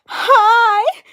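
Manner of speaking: put-on high, loud girlish doll voice, then a giggle; Cat Valentine. Doll greeting people, high Cat Valentine voice with giggle. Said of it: "has the Cat Valentine's Day voice".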